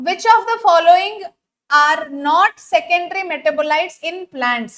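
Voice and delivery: slow, deliberate question read; stretched, careful delivery. Shown as a demonstration. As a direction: read it out slowly for the class. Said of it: "సరే, స్లోగా చెప్తాను".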